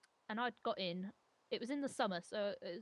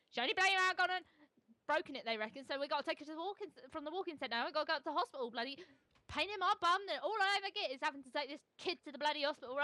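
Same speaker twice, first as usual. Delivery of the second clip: higher-pitched, grumbling, fast complaint; moaning mum; 5 semitones higher, faster than usual. Retold or imitated. Mum on the phone to stepdad, higher grumbling whinge. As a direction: whinge like a put-upon mum.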